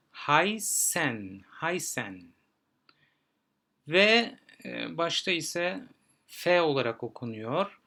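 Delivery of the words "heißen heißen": "Haysen" with "eye" and a strong S. Shown as a demonstration. Teacher showing E I and the strong S, careful demo. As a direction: say "Haysen" twice, first carefully, pressing the S. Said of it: "ay diye okunuyordu".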